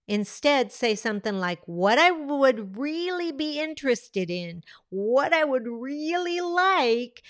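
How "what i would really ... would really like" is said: energy shift. Shown as a demonstration. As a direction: let the energy lift as you say it. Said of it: "notice the energy shift". (con la energía más alta y lenta)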